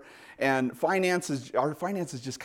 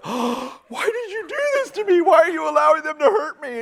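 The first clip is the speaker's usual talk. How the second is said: much higher, small wounded voice; hurt baby voice; 14 semitones higher, 5 dB louder than usual. Retold or imitated. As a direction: voice the baby betrayed by its parent. Baby voiced after shot.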